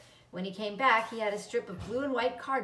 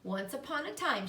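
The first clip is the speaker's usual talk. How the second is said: storytelling; 4 semitones higher than usual. A narrator's reading. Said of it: "she began".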